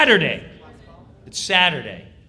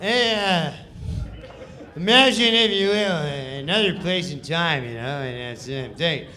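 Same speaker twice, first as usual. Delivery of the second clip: a bit louder, offhand read; Norm's lazy read; 3 dB louder than usual. Retold or imitated. Norm live on air, lazy offhand reading. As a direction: throw the intro away casually. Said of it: "Norm Macdonald".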